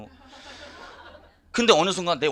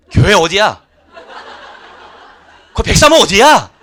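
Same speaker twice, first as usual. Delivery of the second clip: 들뜬 외침; 4 semitones higher, 17 dB louder than usual. Retold or imitated. 좋은 변화에 들뜬 남편.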